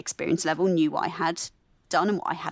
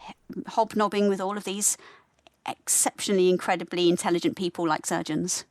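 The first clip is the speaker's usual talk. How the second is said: inner critic. Retold or imitated. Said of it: "tells me".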